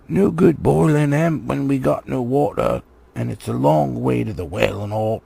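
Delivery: gruff complaint in a troll voice; lightly voiced troll. Troll grumbling to the others about water.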